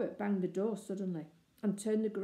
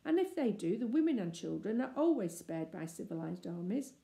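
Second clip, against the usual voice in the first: coaxing; 3 semitones higher than usual. Acted. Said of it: "she said coaxingly".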